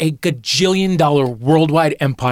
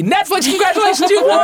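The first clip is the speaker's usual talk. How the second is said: excited announcement; 3 dB louder than usual. Real, not acted. Announcing the winner.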